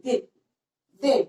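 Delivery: दिन said short, without weight; easy, unstressed दिन. Shown as a demonstration. Teacher recalling yesterday's word, दिन said easily. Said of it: "easily हमने बोल दिया था".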